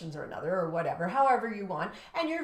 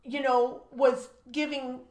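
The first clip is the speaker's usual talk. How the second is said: amazed, emphatic; 4 semitones higher, 7 dB louder than usual. Retold or imitated. Amazed list of good behaviour.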